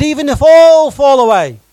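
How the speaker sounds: a forceful vow that opens loud and settles; loud declaration. Acted. Peter vowing to Jesus he won't deny him, loud then firm. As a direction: declare it, starting with a loud cry. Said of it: "Peter declared".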